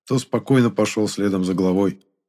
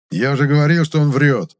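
louder, sure of himself; man in the crowd exclaiming told-you-so; convinced exclaim; 6 semitones higher, 5 dB louder than usual. A narrator's reading. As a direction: crow that you were right. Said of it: "убеждённо воскликнул какой-то мужик".

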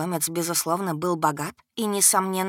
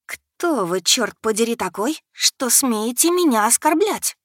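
menacing threat; 4 semitones higher, 4 dB louder than usual. Acted. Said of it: "низким угрожающим голосом".

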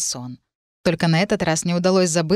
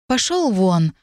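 ordinary delivery

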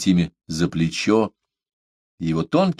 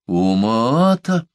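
high, slow outraged cry; full-voiced shout; 7 semitones higher, much slower than usual. A narrator's reading. Omaata shouting her question at Parsel. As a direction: suddenly let it out at full voice. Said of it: "закричала она вдруг полным голосом".

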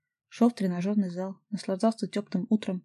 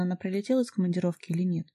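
ordinary delivery, nothing marked

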